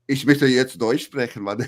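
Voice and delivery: lightly put-on Bavarian-flavoured German; southern German accent, Bavarian style. Shown as a demonstration. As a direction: speak German with a hint of Bayerisch. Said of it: "I usually imitate Bayerisch".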